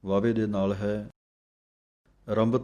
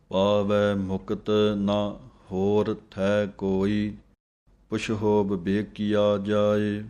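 scripture recitation; slower than usual. Shown as a demonstration. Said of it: "teacher recites the hymn line".

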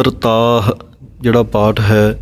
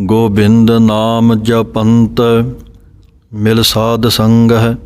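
measured phrase, then a pause; slow recitation. Shown as a demonstration. Teacher reciting the next line slowly for students. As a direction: draw out ਗੋਬਿੰਦ ਨਾਮ ਜਪੰਤ slowly. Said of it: "ਸੋ ਇਸੇ ਤਰ੍ਹਾਂ ਹੀ".

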